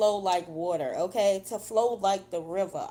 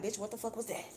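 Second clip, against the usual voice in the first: shocked reaction. Retold or imitated. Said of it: "you gonna be like".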